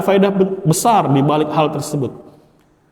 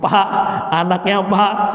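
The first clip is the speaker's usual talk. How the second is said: nervous suitor; 3 semitones higher, slower than usual. Retold or imitated. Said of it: "sambil ngelus-ngelus dengkul".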